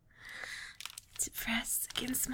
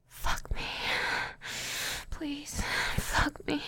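right in your ear; 3 semitones higher, slower than usual. Acted. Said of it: "lean down and whisper in your ear".

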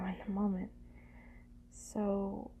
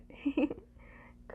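short breathy higher giggle; 6 semitones higher than usual. Acted. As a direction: giggle briefly. Teasing the partner.

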